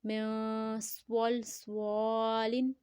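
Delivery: long nasal "م", then thick, stretched "سوالن"; ikhfa with heavy saad. Shown as a demonstration. Teacher gives the finished phrase, ikhfa with heavy saad. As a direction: hum "م", then recite "سوالن" very slowly and full. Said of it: "یہاں ہم اخفا کریں گے".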